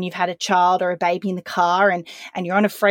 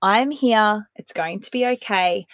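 calm reassurance. Shown as a demonstration. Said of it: "Speak to them really, really calmly".

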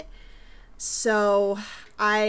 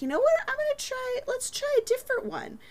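trying a new voice; faster than usual. Retold or imitated. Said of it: "and then I was like".

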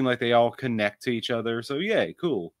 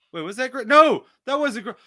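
confused surprise; 10 semitones higher, 4 dB louder than usual. Real, not acted. Confused about actress.

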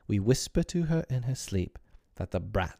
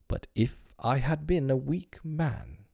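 mild musing; 6 semitones higher than usual. Acted. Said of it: "he said".

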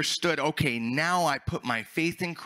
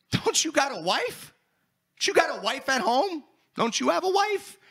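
confronting; 13 semitones higher than usual. Retold or imitated. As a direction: call him out on cheating.

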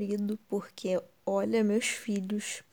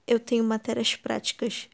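ordinary talk, nothing marked

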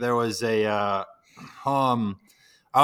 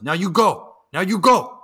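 higher, louder shooing; imitated bystander; 6 semitones higher, 5 dB louder than usual. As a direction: shoo him off firmly. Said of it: "and he goes".

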